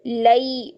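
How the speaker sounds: "लई" turning from a into i; glide into ya. Shown as a demonstration. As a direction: bend the vowel of "लई" toward i. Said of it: "मोड़ कैसे पैदा करेंगे".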